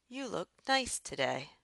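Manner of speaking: "You look nice today" rising, then falling at the end; rising-falling intonation. Shown as a demonstration. Teacher giving an example declarative sentence, rising-falling intonation. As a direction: let "today" fall after a rise. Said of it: "they use a rising and then a falling pattern".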